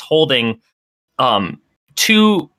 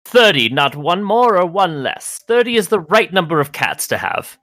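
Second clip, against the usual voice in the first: prim Agnes; 6 semitones higher than usual. Acted.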